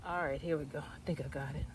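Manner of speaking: straining while digging; pushing through the strain of pulling; effort grunt. Real, not acted. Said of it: "I'm grunting, but this is not easy".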